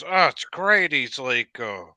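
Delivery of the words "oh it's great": cheery buddy. Retold or imitated. Buddy quoted, cheerful about job.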